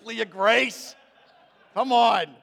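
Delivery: exasperated dad to his joking daughter; mock exasperation. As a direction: come on, you're killing me.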